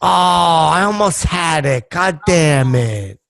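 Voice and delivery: slow, drawn-out exasperation; mock-annoyed at losing the riddle; playful frustration. Real, not acted. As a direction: groan over a near miss, slowly. Just missed the riddle's answer.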